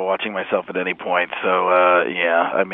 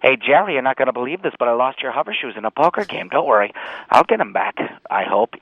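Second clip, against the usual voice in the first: sitcom neighbor voice; 3 semitones higher than usual. Acted.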